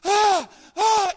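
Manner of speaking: loud high overwhelmed cries; overcome cries. Retold or imitated. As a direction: cry out as if overcome. Tim overwhelmed on the floor.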